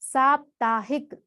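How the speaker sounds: साप्ताहिक said slowly with a long सा; slow model word. Shown as a demonstration. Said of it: "हम बोलते हैं क्या".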